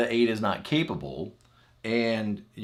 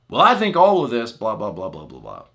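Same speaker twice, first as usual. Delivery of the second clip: mock rant; 7 dB louder than usual.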